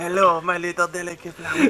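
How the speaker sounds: put-on amorous, romantic voice with a French accent. Joking about a Roadrunner version of Pepe Le Pew, the speaker does a Pepe Le Pew voice. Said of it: "It's like Pepe Le Pew, but Roadrunner".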